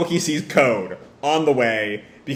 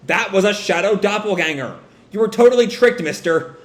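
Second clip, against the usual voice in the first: smug gloating; 6 semitones higher than usual. Retold or imitated. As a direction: rub it in smugly. Boruto gloating to Nishi.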